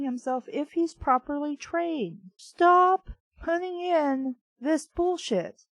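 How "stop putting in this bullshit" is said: exasperated scolding. Real, not acted. Reader scolding the novel's author, exasperated. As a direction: demand it stop.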